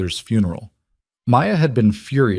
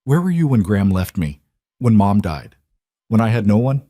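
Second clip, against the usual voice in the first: rising voice; 3 dB louder than usual. Acted. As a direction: voice rising louder with hurt. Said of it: "Selena's voice rose".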